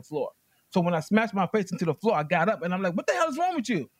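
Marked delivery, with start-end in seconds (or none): 2.9-3.9 high, sharp outraged yell; furious yell. Retold or imitated. Yelling at the friend who tackled him, furious. Furious after face smashed.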